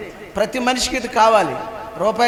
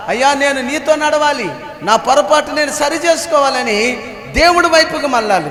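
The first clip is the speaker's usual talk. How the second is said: raised, insistent sermon cadence; preacher pressing the warning; emphatic preaching; 2 semitones higher, 3 dB louder than usual. Real, not acted. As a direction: drive each point home to the congregation.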